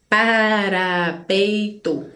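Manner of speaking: PARAPEITO very slowly as pa, ra, pei, to; split into syllables. Shown as a demonstration. Teacher showing polysyllables, parapeito split very slowly. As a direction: draw parapeito out in four even beats, pa, ra, pei, to. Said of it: "com quatro ou mais".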